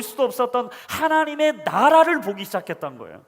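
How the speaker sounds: loud, high preaching build; preaching at full force. Acted. Pastor preaching to the congregation, at full force. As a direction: proclaim it to the congregation with fire.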